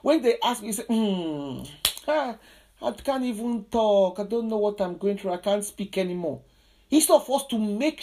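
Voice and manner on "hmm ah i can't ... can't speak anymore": lightly acted speechless sufferer; a touch of helplessness, starting from a hummed hesitation; muted by hardship. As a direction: mildly voice someone unable to talk. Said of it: "The situation will literally mute us".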